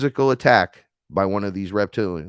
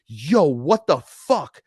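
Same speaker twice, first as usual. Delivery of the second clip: slow, higher, louder stunned outburst; shocked; 5 semitones higher, 4 dB louder, much slower than usual. Retold or imitated. Seeing the mantis behind the human, slow stunned outburst. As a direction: let the shock stretch out.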